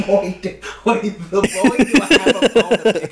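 lightly voiced indignant white guy. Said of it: "White voice, please".

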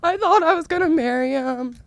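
slow, high, hammed-up sobbing wail; dramatic crying. Crying on her bed over the breakup, a hammed-up wail. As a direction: melodramatic heartbreak, wailing it out. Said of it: "dramatically, dramatic as fuck".

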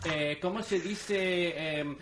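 loud, high, hammed-up Castilian accent; playful Spanish-from-Spain accent; mock Castilian Spanish. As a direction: fumble along in overdone Castilian Spanish, laughing. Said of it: "Castilian Spanish".

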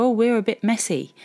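scornful mimicry of people joking about ADHD; mocking quote. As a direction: parrot it back as airy and dismissive. Mocking the TikTok ADHD joke.

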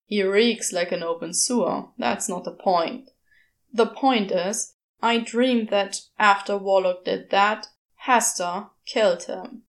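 a hint of the impatient demon; Crowley voice. Crowley insists on the point.

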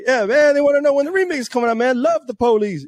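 high, loud, eager sales pitch; hyped pitch. Retold or imitated. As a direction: push it on him with big energy. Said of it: "I tell him, like".

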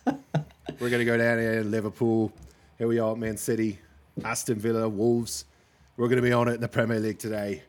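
a playful put-on British accent, brisk; hammed-up British pundit opening the segment; mock British football presenter. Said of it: "Can, can you do this next segment in a British accent?".

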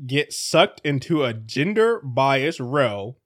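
very slow, measured reading. Real, not acted. Host re-reads a headline on request, very slowly. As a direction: spell out the headline at half speed. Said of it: "do that again a little slower".

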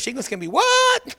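a lighter hint of the shouting lady; half-hearted commercial yell; mock ad shout. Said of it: "what's that commercial".

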